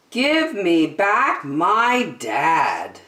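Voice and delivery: slow, deliberate title read; story title announcement. A narrator's reading. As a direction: announce the title slowly, word by word.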